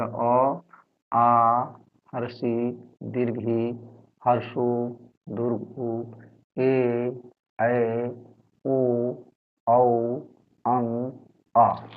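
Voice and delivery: stretched vowels with a pause after each; alphabet recitation. Shown as a demonstration. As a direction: read out the vowels one by one for pupils. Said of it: "तो इसको हम लोग पढ़ेंगे". (एक-एक स्वर खींचकर पढ़ाना)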